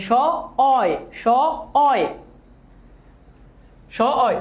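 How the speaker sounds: স and অয় said as two separate sounds, paused between; syllable breakdown. Shown as a demonstration. Teacher showing students the sounds inside a word, স and অয় sounded separately. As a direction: split it into স, then অয়. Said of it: "বলেন তো কি হবে?".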